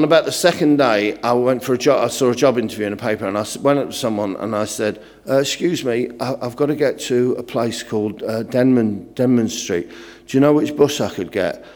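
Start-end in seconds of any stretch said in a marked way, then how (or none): 5.3-11.6 hesitant, softer northern English newcomer; northern English accent. Retold or imitated. Northern teenager new to London asking strangers the way, hesitant northern English accent. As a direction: ask shyly in a light northern English accent. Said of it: "I'm from up north".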